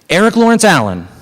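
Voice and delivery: high-pitched call down the street; mother yelling. Retold or imitated. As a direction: imitate a mother yelling the child's full name. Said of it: "my mother yell down the street".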